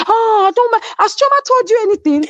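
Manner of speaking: high, flustered mimicked question; imitated alarm. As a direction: mimic someone panicking about what was told. Acting out Caroline's alarmed question.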